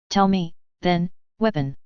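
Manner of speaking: slow, dry sarcastic contempt. A narrator's reading. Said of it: "a slight modulation of my tone to convey sarcasm".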